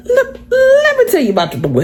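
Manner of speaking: high, laughing gossip; gossiping coworker. Retold or imitated. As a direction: spill the tea through laughter. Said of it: "He said".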